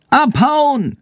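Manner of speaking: very high bat screech. A narrator's reading. Bat warns Jendrik to flee the farmer, screeching. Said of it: "Schandors kreischende Stimme".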